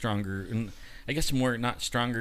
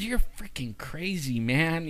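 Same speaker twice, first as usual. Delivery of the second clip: retold scolding; 4 semitones higher, slower than usual. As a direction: imitate a doctor chewing out a patient. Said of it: "started chewing me out".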